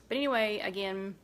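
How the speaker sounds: talking round a bite of egg; chewing while apologizing; mouth full. Real, not acted. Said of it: "I have the egg in my mouth now".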